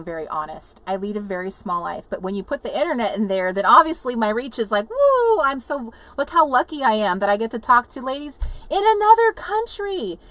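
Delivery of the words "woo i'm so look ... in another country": high, loud whoop into giddy gushing; acted-out delight, raised pitch and volume; gushing excitement. Telling viewers how lucky she is, gushing excitement. Acts out delight at online reach.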